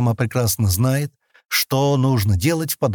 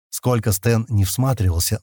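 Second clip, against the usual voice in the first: ordinary delivery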